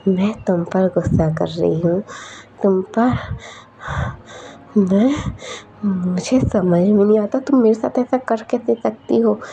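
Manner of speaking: hurt, accusing friend's voice; mild anger building; angry friend. Acted. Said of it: "मुझ पर क्यों गुस्सा कर रही हो". (दोस्त पर नाराज़ होकर, हल्का गुस्सा)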